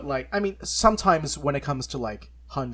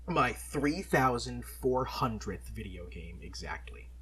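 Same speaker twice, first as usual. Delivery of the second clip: slow hushed whisper for the big number; whispered reveal; 2 semitones lower, 5 dB quieter, slower than usual. Real, not acted. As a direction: breathe it out like a secret triumph. Dramatic milestone reveal.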